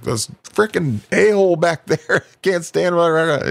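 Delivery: high, laughing rush of an excuse. Retold or imitated. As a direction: blurt it out through laughter. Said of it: "I was like".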